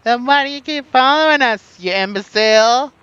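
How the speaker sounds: high, loud hammed-up indignation; theatrical, high-pitched angry comeback; mock outraged retort. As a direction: yell back in play-acted outrage. Playing out a pirate quarrel.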